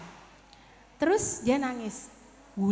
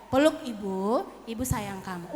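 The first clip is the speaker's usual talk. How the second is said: lower, softening motherly comfort; tender soothing; 4 semitones lower, 4 dB quieter than usual. Acted. Mother hugging her crying child, tender soothing. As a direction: soothe gently, dropping softer at the end.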